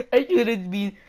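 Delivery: mock sorry. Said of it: "Just kidding".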